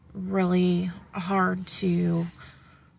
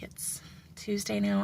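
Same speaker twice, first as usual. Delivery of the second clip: whispered; 6 dB quieter than usual. Real, not acted. Dropping to a whisper mid-story.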